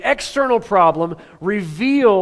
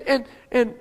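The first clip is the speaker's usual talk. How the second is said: normal talking voice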